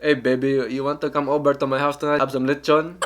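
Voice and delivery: put-on Filipino accent. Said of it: "Filipino accent is so amazing for, for flirting".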